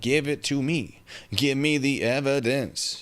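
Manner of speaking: high, slow, eager pleading tone. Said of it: "here I am being like".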